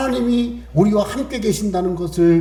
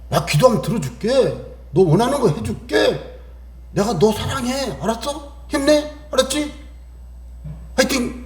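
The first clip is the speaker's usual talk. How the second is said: cheering encouragement; 4 semitones higher than usual. Acted. God voiced cheering his child.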